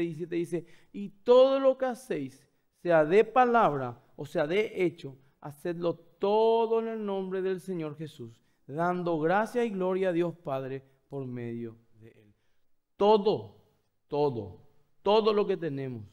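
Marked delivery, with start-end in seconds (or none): 0.9-12.3 forceful scripture reading. Acted. Preacher reads verse forcefully. 13.0-16.1 each "todo" hit hard and falling; emphatic repetition. Acted.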